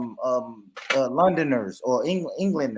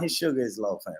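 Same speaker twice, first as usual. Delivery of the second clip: put-on London accent; 9 semitones lower, 10 dB quieter than usual. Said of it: "I love when y'all say that".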